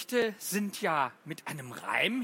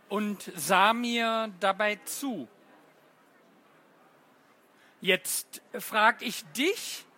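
poem recital. Acted. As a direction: read it as a puzzled little riddle. Teacher reads twin poem.

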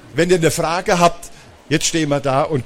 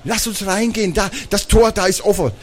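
higher, eager sister's voice; eager urging; 6 semitones higher than usual. Acted. Sister urges brother through the open gate, eager urging. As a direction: coax him along excitedly.

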